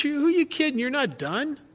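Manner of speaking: a hint of the sober old-timer cutting through; Woody's blunt reply. Sober sponsor calling the drunk's bluff, lightly voiced. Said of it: "he says".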